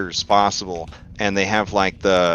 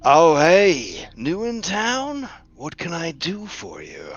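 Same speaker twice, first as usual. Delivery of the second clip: skeleton voice; 8 semitones higher, slower than usual. Acted. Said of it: "the skeleton says".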